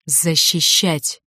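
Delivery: slow, drawn-out word through the teeth; through clenched teeth. A narrator's reading. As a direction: force it out slowly, teeth clenched. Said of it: "процедил он".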